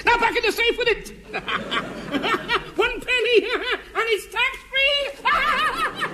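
very high, slow gloating squeal; gleeful miser. Acted. Miser gloats over penny.

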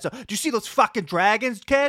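put-on Boston street accent. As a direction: do a local Boston guy. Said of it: "what's dragons in Boston".

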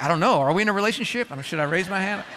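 quick, lightly voiced confused listener; mock a listener who isn't sure; unsure congregant. Pastor teasing dating couples, quick and confused. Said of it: "Some of you are like".

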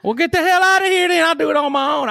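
laughing outrage. Pretend. Mock outrage at partner leaving.

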